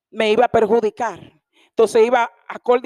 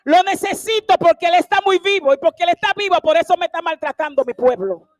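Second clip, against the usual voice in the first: raised, emphatic preacher voice; forceful preaching; 5 semitones higher, 4 dB louder than usual. Acted. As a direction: declare God's words to the congregation. Preaches God's words forcefully.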